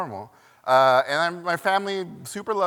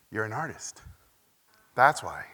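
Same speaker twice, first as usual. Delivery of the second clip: smiling; 4 semitones lower than usual. Retold or imitated. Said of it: "he smiled, just like my dad".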